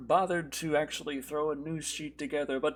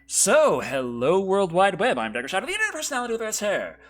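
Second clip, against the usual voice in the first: show host intro; 2 semitones higher than usual. Acted.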